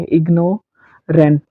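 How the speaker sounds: इग्नोरेंट said slowly, syllables spread out; slow word demo. Shown as a demonstration. Teacher models the syllables for students, slowly. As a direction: draw out इग्नोरेंट for the class. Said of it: "इसको यहाँ पर भी एक syllable लगा".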